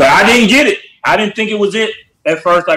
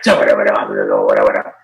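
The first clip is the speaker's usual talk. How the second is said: mock gibberish accent. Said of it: "They'd be like".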